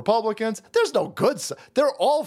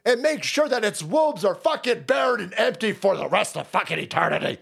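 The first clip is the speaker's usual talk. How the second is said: lightly imitated conspiracy-host tirade, raised pitch; Alex Jones; 3 semitones higher than usual. Host ranting against the N W O, mock doomsday tirade. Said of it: "Something Alex Jones stuff".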